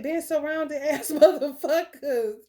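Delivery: laughing mid-line; amused laughter. Real, not acted. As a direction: laugh through it.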